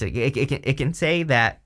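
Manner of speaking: choking. Real, not acted. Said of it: "sorry, I'm choking".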